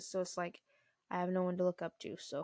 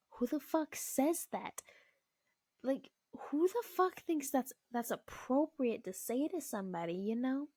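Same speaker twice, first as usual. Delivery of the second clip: higher-pitched, incredulous outrage; indignant disbelief; 6 semitones higher than usual. Retold or imitated. Mother reacting to an intrusive stranger's remark, indignant disbelief. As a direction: question it in retold indignation.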